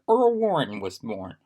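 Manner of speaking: hiccuping mid-sentence, just sipped a drink; hiccups while drinking. Real, not acted. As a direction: talk between sips with hiccups. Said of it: "Sorry, I'm drinking. I've got a terrible case of hiccups".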